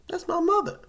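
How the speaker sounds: loud comic reveal; loud high punchline. Real, not acted. Punchline about yelling mother.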